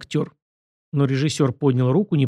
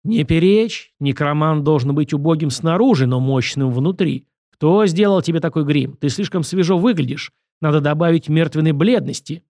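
lightly voiced director brooking no argument; emphatic, impatient stage coaching; bossy director; 2 semitones higher, 4 dB louder than usual. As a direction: rap out the critique with authority.

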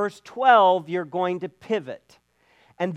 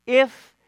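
"If." higher and louder; stress on if; 4 semitones higher, 5 dB louder than usual. Shown as a demonstration. Preacher driving home the condition in verse four, stressed. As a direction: punch the "If." up high. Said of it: "So there's a lot of ifs".

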